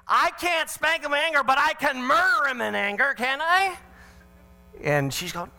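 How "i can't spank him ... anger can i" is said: much higher, mock-innocent question; sarcastic retort. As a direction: twist her words with sarcasm. Sarcastic reply to wife.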